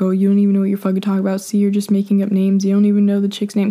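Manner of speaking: imitating an angry ex, quick and dismissive; mock annoyed rant. Ex defensively telling her she's making up names, mildly angry imitation. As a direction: rattle off his defensive accusations at speed. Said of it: "he got all mad at me".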